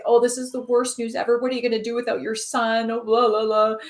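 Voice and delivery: hammed-up fretting that runs into blah-blah; panicked neighbours. Neighbours lament farmer's injured son, mock panic. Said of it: "they're panicking".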